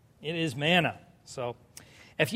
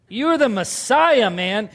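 a student nailing the answer; eager Peter; 4 dB louder, slower than usual. Acted. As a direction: Peter beaming at Jesus.

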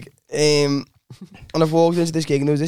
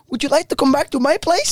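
higher, put-on Norwegian woman; Norwegian accent; 6 semitones higher than usual. Woman invites him home, mock Norwegian accent. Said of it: "about to depict your accent".

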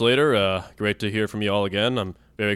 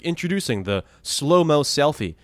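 slow, higher ad-read voice; commercial announcer; 5 semitones higher than usual. Retold or imitated. Retelling a phone commercial, slow announcer pitch. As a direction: announce it like a product reveal. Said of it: "it said, like".

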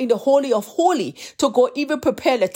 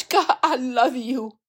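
tearful; slower than usual. Real, not acted. Tearful praise while telling story.

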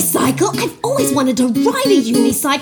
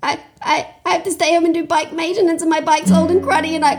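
high, whiny stammering complaint; whiny upset girl; 7 semitones higher than usual. Acted. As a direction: stammer it out, near tears. Bikerella sobs her woes.

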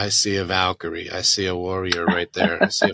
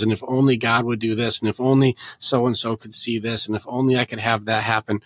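bargaining; 2 semitones higher than usual. Retold or imitated. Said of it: "You have to go through the bargaining".

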